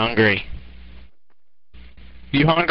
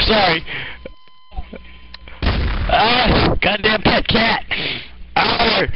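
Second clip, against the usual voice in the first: mock frantic yelling; 5 semitones higher than usual. Frantic about the pet cat.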